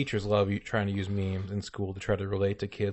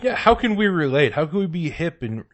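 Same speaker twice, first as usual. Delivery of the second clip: mock cop trying to be hip; 7 semitones higher, 4 dB louder than usual. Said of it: "mocking police trying to be hip".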